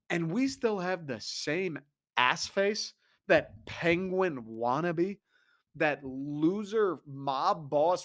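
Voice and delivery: 1 slow mocking insults. Real, not acted. Slow, scornful insult run about GM.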